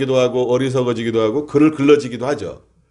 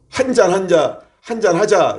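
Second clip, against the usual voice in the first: imitated coaxing, pitched higher; 4 semitones higher than usual. Inner craving urging him to have a drink, mock coaxing. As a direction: voice the tempting urge for a drink. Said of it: "이렇게 권하는데".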